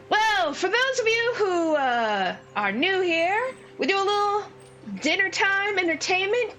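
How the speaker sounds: high-pitched, projected gnome announcer; booming little showman welcoming a crowd. Acted. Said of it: "bizarrely booming voice".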